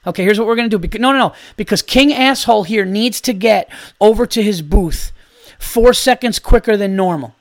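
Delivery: sarcastically brief your son on an emergency plan; mock urgent instructions. Acted dad instructing son, mocking man.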